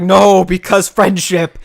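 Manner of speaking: slow, dragged-out mock hero line; a hammed-up hero reply, slow and earnest. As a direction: draw it out like a smug hero with one argument. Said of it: "Naruto's like".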